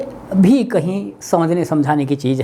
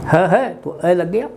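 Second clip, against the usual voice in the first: slow explanation. Shown as a demonstration. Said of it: "जैसे अहित".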